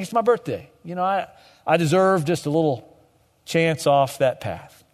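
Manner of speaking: lightly voiced self-indulgent excuse; mock entitled. A believer excusing himself from the path, mock entitled. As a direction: say it like you've earned a treat. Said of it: "we think".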